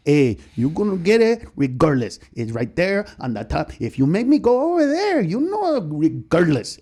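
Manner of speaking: a hint of Freddie's father, threatening; lightly voiced angry dad warning his kid; imitating Freddie's father scolding, mildly voiced; Freddie's father impression. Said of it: "impression of Freddie's father".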